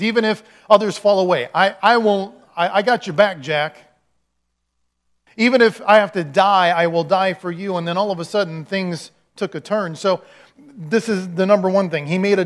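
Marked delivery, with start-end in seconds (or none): 0.0-3.8 loud, emphatic vow of loyalty; bold declaration. Acted. Peter pledging loyalty to Jesus, bold declaration. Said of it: "he started making some declarations". 5.4-7.8 loud vow, strongest at the start; bold declaration. Acted. Peter vowing to die for Jesus, bold declaration. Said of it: "he started making some declarations".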